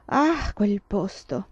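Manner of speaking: slow, brushing-off sniff; dismissive. A narrator's reading. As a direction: wave the place away with your voice. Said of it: "allontanando il Minnesota con un gesto". (sprezzante, lento, come scacciare il Minnesota)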